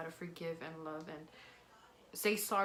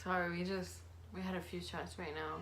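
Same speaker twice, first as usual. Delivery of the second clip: tipsy. Real, not acted. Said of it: "I'm a little tipsy".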